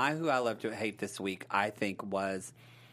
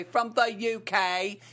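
higher-pitched, badly faked English accent; 8 semitones higher, 5 dB louder, slower than usual. Host thanking a UK viewer, hammed-up English accent. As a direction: put on your best attempt at English. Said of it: "my best version of an English accent".

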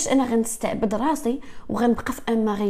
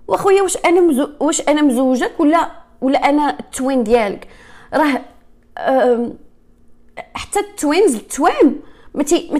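incredulous protest; 2 semitones higher, 4 dB louder than usual. Real, not acted. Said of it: "mocking her ex's demand".

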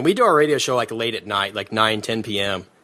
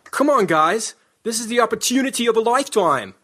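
higher, mock attempt at an American accent; mock bad American accent, pitched up; imitating botched American accent; 9 semitones higher than usual. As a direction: mimic an actor fumbling an American accent. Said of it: "tries to do it in an English or an American accent".

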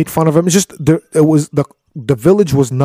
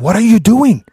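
shocked outcry; 7 semitones higher than usual. Retold or imitated. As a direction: cry out in disbelief at the damage. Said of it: "So Moses is like".

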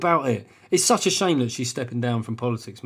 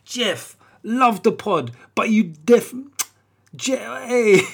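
put-on high-pitched South London urban accent; mock-cool urban London voice; 7 semitones higher, 3 dB louder, slower than usual. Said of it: "cool fucking urban accent I was doing".

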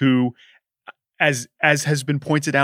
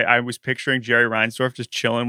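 ordinary talk, nothing marked

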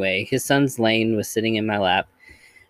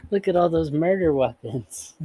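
put-on high, childlike and cheery; sing-song it like a sweet creepy kid; cheerful little girl voice; 7 semitones higher than usual. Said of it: "adorable and creepy".

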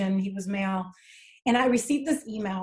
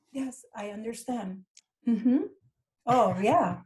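acting politely composed, with pauses between replies; measured, agreeable mask of understanding; stoic composure. Worker nodding along to a boss's demands, stoically composed. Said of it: "to have the stoic perfection of image".

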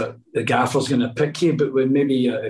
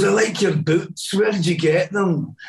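lightly imitated comedian, pitched higher; Billy Connolly; 5 semitones higher than usual. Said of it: "And he goes".

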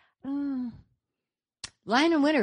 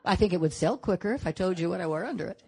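laughing; 2 semitones higher, 8 dB louder than usual. Real, not acted. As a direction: talk through real laughter, louder. Joking about what she wore.

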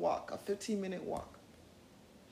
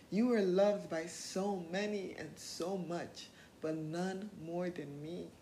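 Doctor Who quote; 5 semitones lower, slower than usual. Shown as a demonstration. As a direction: say it gently, like a promise to yourself. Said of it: "That's a quote from Doctor Who".

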